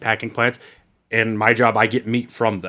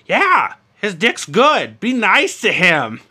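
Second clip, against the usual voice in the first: mock mom; 7 semitones higher, 3 dB louder, much slower than usual. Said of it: "And she's like".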